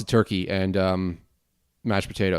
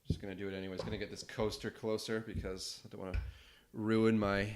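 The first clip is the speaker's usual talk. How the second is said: quiet talk; 10 dB quieter than usual. Real, not acted. Keeps talking softly over the pour.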